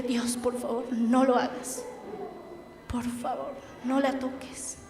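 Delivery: soft, hushed pleading close to tears; tearful plea. Retold or imitated. Preacher retelling her tearful prayer to God, soft and pleading. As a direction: beg God quietly through tears. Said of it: "me puse a llorar y le dije".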